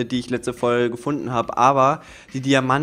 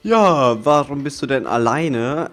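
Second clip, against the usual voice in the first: quoted viewer question; 3 semitones higher, 6 dB louder than usual. Retold or imitated. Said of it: "die sich jetzt so denken".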